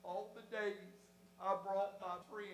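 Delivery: low, hushed aside to oneself; embarrassed inner thought. Acted. Churchgoer dismayed at bringing a friend, quiet lament. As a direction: mumble a private lament under the service.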